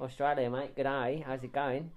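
put-on casual Aussie greeting accent; mock Australian accent. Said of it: "We've made it into the Australian".

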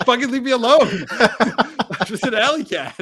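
high, loud put-on cat voice, laughing through it; grumpy alley cat. Friend voicing the stray cat, high and laughing. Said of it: "This cat's like".

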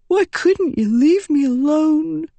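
put-on high, bitter boy's voice; a dying boy blaming her; hurt boy. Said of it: "he whispered".

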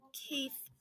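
soft hesitant repeat; quiet. A narrator's reading. Missus Grey softly repeating Keith's name to Big Red. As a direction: say his name softly, embarrassed. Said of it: "repeated Missus Grey quietly".

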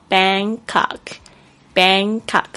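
Bangkok with a back-of-tongue ng; pronunciation. Shown as a demonstration. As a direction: say Bangkok with a clear velar ng in Bang. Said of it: "N G的声音是一个后舌音".

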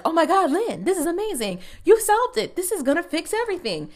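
high, giddy mock gush; gushing excitement. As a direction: squeal it like a sudden discovery. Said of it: "She randomly is just like".

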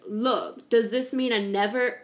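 lightly attempted British accent; a hint of a British accent. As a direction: try out a British accent, half-committed. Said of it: "I'll do my British accent".

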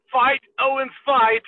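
short, hammered words, half-hearted impression; Kevin Owens. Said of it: "I can't do Kevin Owens".

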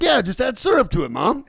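high, loud, through laughter; gleeful mock reply. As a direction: land the punchline while cracking up. Retells his joking reply to wife.

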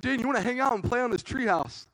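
high, overly friendly offer; sweet invitation. Retold or imitated. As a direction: lure her in playfully. Luring sister.

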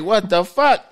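exasperated, rising to a yell; mock-angry rant at crybabies; mock outrage. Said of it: "And I'm like".

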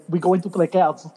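put-on half-hearted French accent; a not very French accent; mock French accent. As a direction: loosely imitate a French accent. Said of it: "he doesn't even sound that French".

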